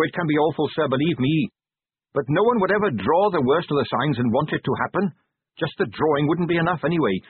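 lightly acted earnest subordinate; earnest young captain. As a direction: explain a grim matter earnestly, with a hint of urgency. Carrot's voice in the story.

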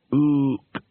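single ape hoot; ape grunt. Acted. Librarian orangutan replies.

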